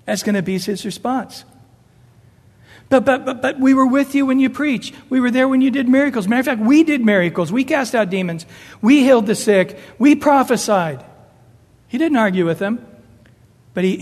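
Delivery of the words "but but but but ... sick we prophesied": protesting. Pretend. The rejected protest to Jesus.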